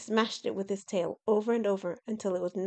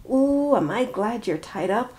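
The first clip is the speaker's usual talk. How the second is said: slow, tense and wincing; 7 dB louder than usual. Acted. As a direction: brace yourself as you say it. Severn bracing to hurt dragon.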